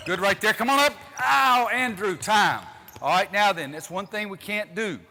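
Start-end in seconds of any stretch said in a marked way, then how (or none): 0.1-2.7 much higher, loud yell; excited shout. Real, not acted. Coach yelling at a player mid-drill, high and loud. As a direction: call him up sharply.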